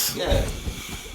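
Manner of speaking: superfluous breathed out, slow and soft; whispered superfluous. Real, not acted. Echoing a friend softly, whispered superfluous. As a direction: murmur the word superfluous in unison. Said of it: "we say superfluous at the exact same time".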